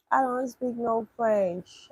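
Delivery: slow, drawn-out protest; slow refusal. Real, not acted. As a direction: spell it out slowly, at normal volume. First take before escalating repeats.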